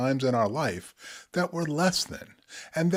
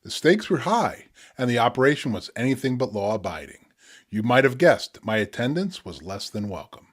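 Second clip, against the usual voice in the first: measured poetic reading with pauses; spoken word poetry. Acted. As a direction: read the poem with weight, unhurried. Reads his poem The Back Rooms.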